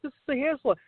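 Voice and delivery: high-pitched protest; mock objection; retold customer objection. Voicing objecting salon customers.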